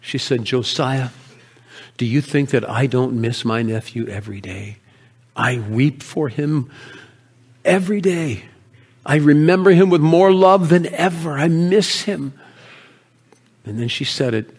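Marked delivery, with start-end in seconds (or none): 0.5-12.3 tender with a touch of grief; loving. Acted. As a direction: gently confide a lasting love. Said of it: "with the most love in her voice".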